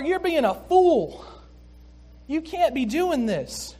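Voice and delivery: put-on older son protesting to his father, angry. Older son refusing his father's welcome, indignant and loud. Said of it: "He's protesting".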